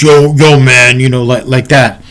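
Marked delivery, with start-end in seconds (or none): 0.0-1.0 imitated tough kid's loud "yo"; louder, punchy mock tough-guy call; deep-voiced tough kid. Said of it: "he had a really deep voice".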